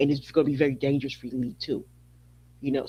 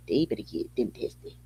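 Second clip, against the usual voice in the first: quieter; 6 semitones lower, 7 dB quieter than usual. Acted. Repetition fades to whisper.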